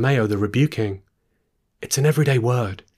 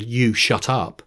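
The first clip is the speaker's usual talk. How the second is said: pub landlord bark; slower than usual. Retold or imitated. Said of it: "back to my pub landlord".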